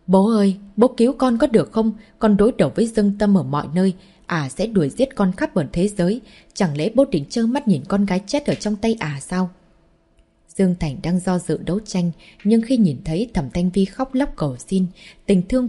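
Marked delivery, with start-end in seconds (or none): 0.1-9.5 tearful pleading. Acted. Daughter begging her father to save her, tearful plea. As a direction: beg her father through mild sobs. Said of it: "sau đó bật khóc nức nở".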